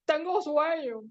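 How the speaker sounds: words pushed out through a big mock yawn; acted sleepy yawn. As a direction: yawn at length, then speak sleepily. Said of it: "dijo bostezando".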